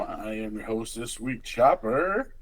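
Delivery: big, loud showman welcome; game show host voice. Acted. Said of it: "I was doing my best game show host voice".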